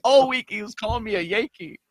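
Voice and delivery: usual speaking voice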